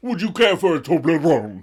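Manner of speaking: a touch of a prim British dad; polite English gentleman. Pretend. Emily's father offering her a Toblerone, lightly voiced posh. Imagined Mister Waltham offering chocolate.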